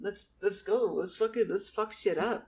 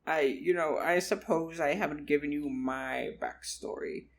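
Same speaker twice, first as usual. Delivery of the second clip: put-on old man. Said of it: "Charles was like".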